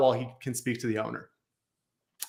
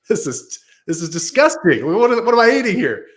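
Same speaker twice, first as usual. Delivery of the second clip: higher, louder, disgusted chef blasting the dish; a hammed-up celebrity chef tearing into the food; mock Gordon Ramsay outrage; 8 semitones higher, 8 dB louder than usual. Tasting the risotto, Gordon Ramsay roars in disgust. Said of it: "first thing he says is".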